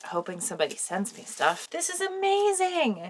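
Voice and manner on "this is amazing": higher and slower, gushing; thrilled, drawn-out exclaim; amazed. Real, not acted. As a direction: let the delight spill over. Overwhelmed by the gift.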